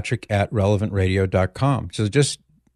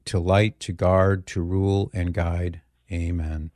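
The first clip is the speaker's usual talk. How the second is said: prayer. Acted. Leads a prayer on air.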